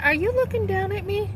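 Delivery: retold challenge to a condescending caseworker, voice shooting up indignantly; indignant confrontation. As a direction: pitch jumps high in an offended challenge, rising at the end. Confronting rude church caseworker.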